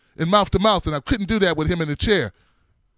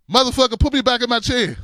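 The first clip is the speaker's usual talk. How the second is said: mock angry yell; 4 semitones higher than usual. Wheelchair man cussing out the helpers, a mock angry yell. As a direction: bark it like a woken man outraged at being moved.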